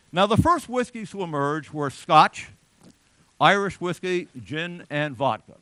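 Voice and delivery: booming lecture emphasis; loud emphatic. Shown as a demonstration. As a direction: announce it loudly. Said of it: "lecturer announces main point".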